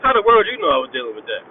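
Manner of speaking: high, loud mock outrage, caught off guard; retelling his shock that the camp knew his secret; shocked disbelief. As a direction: burst out in startled disbelief, pitch jumping up. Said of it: "I'm like".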